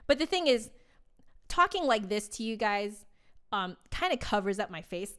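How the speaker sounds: lips right on the mic, boomy and close; close-miked radio voice. Shown as a demonstration. Flutist shows viewers her radio-y close-mic voice. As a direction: lean into the mic for a radio-y sound. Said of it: "and then talk like this".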